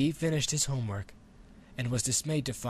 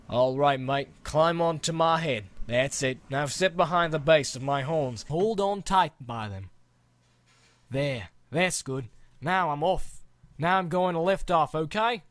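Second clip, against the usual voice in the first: louder, hearty dragon giving instructions; big dragon guiding the rider, louder; friendly dragon coaching; 3 semitones higher, 4 dB louder than usual. Acted. Dragon coaching the boy before takeoff, hearty.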